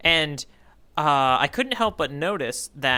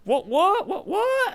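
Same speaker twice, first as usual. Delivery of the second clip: rising, much higher, laughing disbelief; surprised what; much slower than usual. Real, not acted. Host reacting to a cohost's theory, delighted surprise. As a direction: jump up in pitch, startled and laughing.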